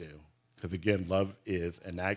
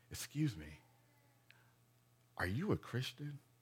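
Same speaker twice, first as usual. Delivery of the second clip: very quiet, hushed, barely audible whisper; 4 semitones higher, 10 dB quieter than usual. Retelling how an employee bent over and asked them: imitating her whisper. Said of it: "she like bent over and whispered".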